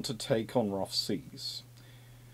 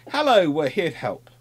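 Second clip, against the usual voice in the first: "Hello" lifted and louder, friendly greeting; cheery naval party; 4 semitones higher, 6 dB louder than usual. Retold or imitated. Sailors greeting villagers, a bright mock-friendly hello. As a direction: play the cheerful sailors arriving. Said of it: "appear in a village far inland and go".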